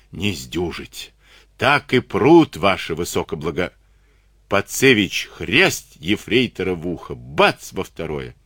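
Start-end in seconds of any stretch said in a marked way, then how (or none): 0.1-3.7 hoarse croak. Acted. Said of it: "прохрипел". (хриплым, надорванным голосом)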